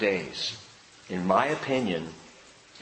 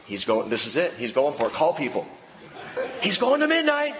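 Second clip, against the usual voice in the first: alarmed congregant; 2 semitones higher than usual. Acted. Congregation realising Paul-length sermon is coming, mock alarm. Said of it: "you'll be going".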